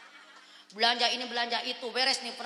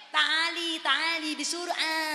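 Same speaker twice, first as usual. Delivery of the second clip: slowed, softer Arabic, word by word; slow Arabic repeat; 4 dB quieter, much slower than usual. Shown as a demonstration. Preacher repeating the Arabic slowly for the audience. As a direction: spell out the Arabic slowly for the crowd. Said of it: "Ngerti kagak?".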